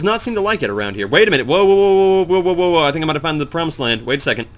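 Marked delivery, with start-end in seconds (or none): 1.5-2.8 raised, louder run of whoas; excited alarm. Real, not acted. Player spotting the way out, excited alarm. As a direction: call a startled halt, voice lifted. Spots the possible way out.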